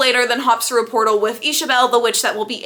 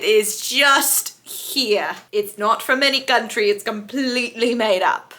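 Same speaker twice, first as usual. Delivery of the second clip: whisper. Pretend. Joking about the made-up accent.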